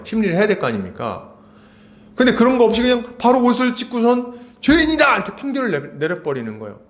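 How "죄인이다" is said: high, loud retold verdict cry; mock shout of judgement, pitched up; accusing shout. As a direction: cry out the condemnation, imitating an outraged judge. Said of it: "이렇게 막 소리를 지르는 거죠".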